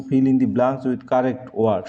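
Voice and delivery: very slow, spelled-out reading; slow dictation. Shown as a demonstration. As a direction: read the instruction slowly for the class. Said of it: "reads instruction slowly". (ধীরে ধীরে পড়া)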